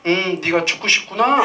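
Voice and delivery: sweet tone hiding a threat; mock menacing calm. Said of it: "군화화법을 써서 뭐라고 했대요?". (웃음 섞인 느릿한 협박조)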